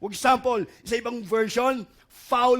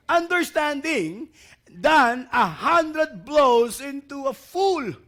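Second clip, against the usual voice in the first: slow, drawn-out scripture reading; slow verse reading; 3 dB louder, much slower than usual. Acted. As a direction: read each word slowly with the church. Congregation reads verse together. (mabagal na pagbasa ng talata)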